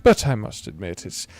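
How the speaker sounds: put-on slow, unhurried old man's drawl. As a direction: stretch it out like a grandparent telling a tale.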